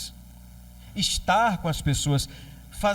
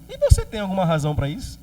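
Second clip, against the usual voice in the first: ironic God; 3 dB louder, faster than usual. Acted. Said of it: "um tom até de humor".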